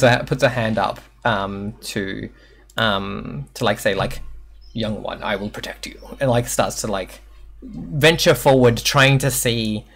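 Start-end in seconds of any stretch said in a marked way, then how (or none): 4.7-6.0 low, very soft reassurance; quietly shield the young one; protective elder creature. Acted. Elder creature to the young one, low and protective.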